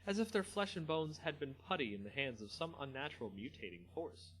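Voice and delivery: steady storyteller reading a fantasy tale; story narration. A narrator's reading. Narrator reading a Magic story to viewers, measured storytelling. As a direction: read it like an audiobook narrator. Reads story aloud after chat.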